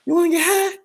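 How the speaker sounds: very high squeaky stoner voice; stoner offering. Retold or imitated. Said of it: "then he tells him".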